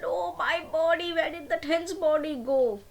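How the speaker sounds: put-on high, mildly tearful girl's voice; a touch of weeping as she searches; lightly acted crying girl. Girl searching for her lost hen body, mildly tearful. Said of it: "she started crying".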